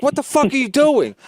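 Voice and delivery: high, incredulous reproach; retold exasperated scolding. Comic scolding his opener after the set, exasperated. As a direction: replay your disbelief at him.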